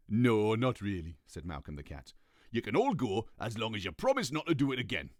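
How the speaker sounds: a cat letting them off; lightly voiced cat. Malcolm voiced.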